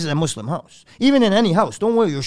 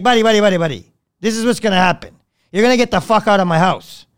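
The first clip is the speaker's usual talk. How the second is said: angry comeback; 4 semitones higher, 5 dB louder, faster than usual. Retold or imitated. Acted angry reply to cop.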